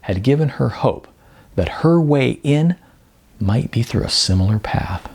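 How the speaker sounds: measured storyteller reading, lightly voiced characters; story narration. A narrator's reading. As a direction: read it like an author presenting his own novel. Reads his novel aloud.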